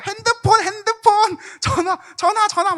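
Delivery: shouting for a phone. Retold or imitated. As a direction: yell it like a panicked kid. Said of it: "막 이런 거 외치는 겁니다". (다급하게 외치는 아이)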